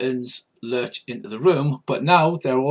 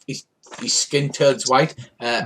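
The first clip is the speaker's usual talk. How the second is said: ordinary talk, nothing marked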